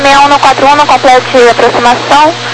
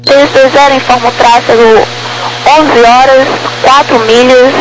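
crackly military radio. Real, not acted. Air traffic radio exchange.

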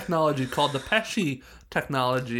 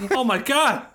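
laughing shriek; 10 semitones higher, much slower than usual. Real, not acted. Laughing outburst.

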